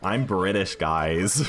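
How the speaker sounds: emphatic British accent on "British". Shown as a demonstration. Streamer correcting the American slip for chat, British accent. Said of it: "I don't know why I said British".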